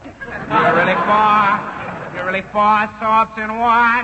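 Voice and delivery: impression of a singer. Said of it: "do that imitation of a singer".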